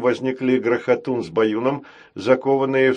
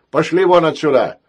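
loud angry shout, higher; 5 semitones higher, 7 dB louder than usual. Acted. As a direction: yell them out of the room. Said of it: "угрожающий вопль". (сердитый крик)

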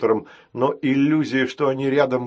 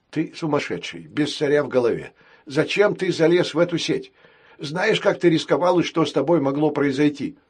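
scolding nanny robot; 4 semitones higher than usual. Acted. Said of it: "удручающе покачал головой".

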